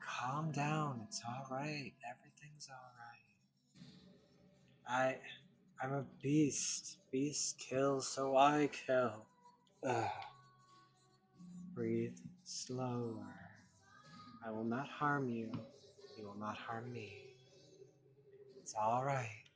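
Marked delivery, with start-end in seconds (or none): 0.1-3.2 softer, fading reassurance; calm him gently; soothing. Acted. 11.7-19.4 steady him with quiet calm; gentle reassurance. Acted. Woman calming him.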